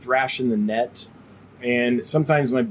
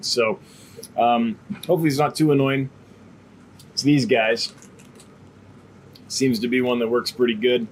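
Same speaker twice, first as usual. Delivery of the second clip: talking around a cough drop; words round a lozenge; mouth full; 2 semitones lower than usual. Real, not acted. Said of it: "I have a cough drop in my mouth".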